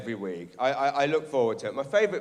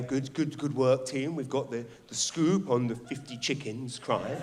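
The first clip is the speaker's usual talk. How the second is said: mock editor; 4 dB quieter than usual. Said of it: "you hear the editor say".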